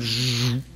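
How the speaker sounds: buzzing zap sound; imitated zap. Preacher imitates the power of God striking, buzzing zap. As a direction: make a short electric buzz. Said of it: "the power of God went".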